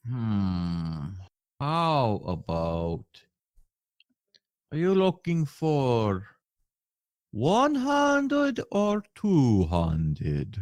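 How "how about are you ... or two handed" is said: merchant voice. Acted. Merchant voice continues.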